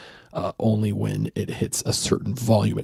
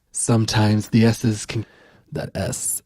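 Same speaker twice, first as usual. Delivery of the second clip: slow, whispered, with an overlong hissing S in "sound"; hissy S demo; 7 dB louder than usual. Shown as a demonstration. Showing viewers a harsh S, slow hissed whisper. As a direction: stretch the S in "sound" into a long hiss. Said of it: "if I'm talking and you hear this".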